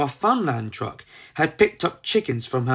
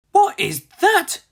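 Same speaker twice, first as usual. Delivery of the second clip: curious; 5 dB louder than usual. Acted. Curious young Molly sees truck.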